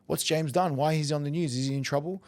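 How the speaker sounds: worried grandma. Retold or imitated. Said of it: "doesn't speak fluent English".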